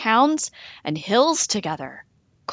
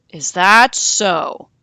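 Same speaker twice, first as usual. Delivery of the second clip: 1 amused doubt; 8 dB louder, slower than usual. A narrator's reading. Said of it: "Wolf laughed".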